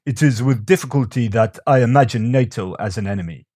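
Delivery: badly faked Russian accent. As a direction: read the quote with an amateur Russian accent. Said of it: "Russian accent".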